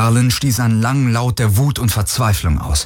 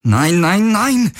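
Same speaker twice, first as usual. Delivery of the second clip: rising panic; 10 semitones higher, slower than usual. A narrator's reading. Power fades, he panics.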